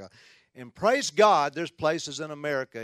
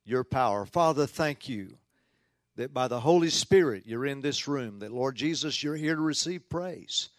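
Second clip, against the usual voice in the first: public prayer. Real, not acted. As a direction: pray earnestly aloud for the congregation. Opening prayer before the talk.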